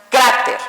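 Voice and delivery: "cráter" with a strong first syllable; stress on first syllable. Shown as a demonstration. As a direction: lean on the "crá" of "cráter". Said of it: "aquí tuvo la fuerza".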